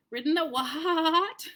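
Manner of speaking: slow, whinnying horsey take; neighing horse. Shown as a demonstration. Narrator tries the horse's contemptuous neigh. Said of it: "I can't neigh very well".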